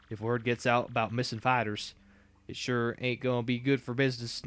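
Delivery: lightly voiced Southern redneck, slow; a hint of a folksy Southern boss; easygoing Southern redneck twang; redneck drawl. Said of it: "I know how to talk like a redneck now".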